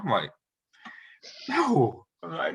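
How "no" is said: flat refusal. Retold or imitated. Refusing football coach's order.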